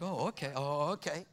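defiant comeback. Retold or imitated. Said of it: "I'm like".

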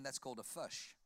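"fish" said as "fush"; exaggerated New Zealand "fish"; Kiwi vowels. Shown as a demonstration. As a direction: flatten the i in "fish" to uh, Kiwi style. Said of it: "they do their vowels in reverse".

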